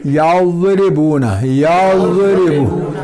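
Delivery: each syllable of यज़रिबून drawn out slowly, ज़ without echo; slow tajweed recitation. Shown as a demonstration. Teacher recites यज़रिबून slowly to students. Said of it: "ज़ात हर्फ कलकला नहीं है".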